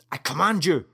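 a sharp, loud order with a push on command. Acted. Crewman ordering the AI to take him home, loud command. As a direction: throw his authority at the machine.

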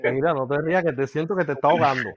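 fighting back laughter while talking; trying not to laugh. Real, not acted. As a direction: laugh breaking through. (aguantando la risa)

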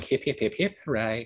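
a playful hint of Australian, cheering like a drag queen; Guy Pearce in Priscilla. Host imitates Guy Pearce cheering in Priscilla, mock Australian accent. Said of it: "Great Australian accent, by the way".

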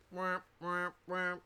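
high, loud wailing siren imitation; red alert alarm. Shown as a demonstration. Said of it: "That was supposed to be a red alert kind of alarm".

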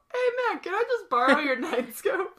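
high, laughing dude voice; goofy dude asking a favor. Pretend.

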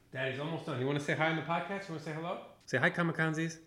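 hushed parental coaxing. Real, not acted. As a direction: gently prompt your little one, off the mic. Father coaxing son, away from mic.

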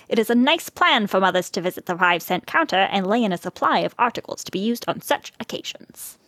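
reading like an early 1900s newspaper; old-fashioned prim reading voice; old-timey voice. Acted. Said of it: "your old-timey voice was perfect".

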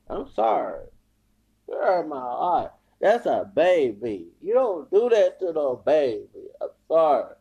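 real hurt, close to tears; about to cry. Real, not acted. Hurt on behalf of a baby, tearfully upset. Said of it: "I'm about to cry".

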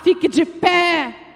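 slow, forceful order; firm command. Retold or imitated. God's command retold to the church, firm order. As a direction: call them to their feet, slowly and firmly.

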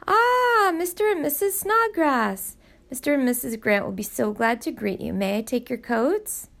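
a butler welcoming guests with a flourish; booming butler. Acted. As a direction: butler greeting the Snodgrasses at the door, booming. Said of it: "his booming voice call out".

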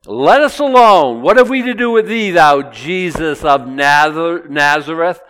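loud, high, pleading cry of a demon; unclean spirit. Acted. Unclean spirit crying out to Jesus, loud and high. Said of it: "unclean spirit is using his vocal cords to say".

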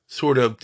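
"sort of" set apart by pauses, lightly stressed. Real, not acted. Lecturer qualifying the Haredi world's commitment, light stress on "sort of". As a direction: lean a little on "sort of". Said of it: "I emphasize the word sort of".

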